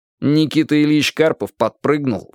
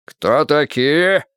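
menacing question; 4 semitones higher, much slower than usual. Acted. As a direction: demand it threateningly. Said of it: "грозно вопросил".

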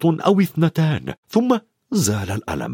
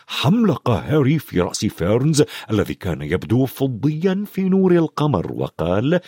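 ordinary delivery, nothing marked

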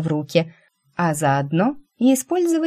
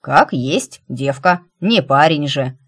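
lightly voiced old cleaning lady; matter-of-fact old babushka; old woman voice; 4 dB louder, slower than usual. A narrator's reading. Old cleaner states the obvious.

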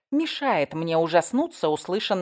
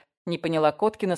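ordinary delivery, nothing marked

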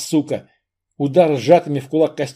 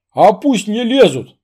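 лихо; 7 semitones higher, 6 dB louder than usual. Acted. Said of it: "добавил лихо".

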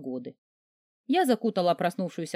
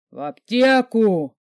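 возмущённо; 3 semitones higher, 8 dB louder, much slower than usual. Acted. Великан возмущён.

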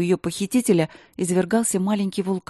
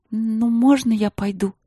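high, plaintive little plea; plaintive asking; 5 semitones higher than usual. Acted. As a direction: ask pitifully. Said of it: "спросила Василина жалобно".

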